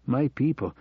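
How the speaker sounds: a touch of slurring on "My people"; "My people" trailing, half-asleep; drowsy stumble. Acted. Drugged man stumbling over his confession to Hannah, drowsy. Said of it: "finding it difficult to remain coherent".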